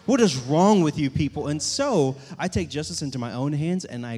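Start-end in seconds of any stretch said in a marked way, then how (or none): 0.1-1.5 mock outrage. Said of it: "furious 'cause I'm like".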